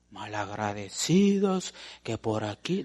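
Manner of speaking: low, slow mock grumble; resentful grumbling. Preacher mimics an unthanked member, low resentful grumble. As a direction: grumble like someone slighted.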